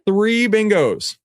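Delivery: high stretched announcement; slow hype. Shown as a demonstration. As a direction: savour it, slowly. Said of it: "drawn-out hype".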